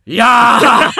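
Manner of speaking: loud mock-polite gasp; exaggerated polite exclaim. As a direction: ham up a proper gentleman's cry. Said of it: "そんな言い方じゃないでしょ".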